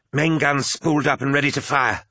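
high, urgent crewman's voice; officer's report. A narrator's reading. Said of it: "reported Moderati Primus Titus Cassar".

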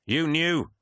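high, outraged realisation; acted accusation. Crewman accusing commander over bombardment, outraged.

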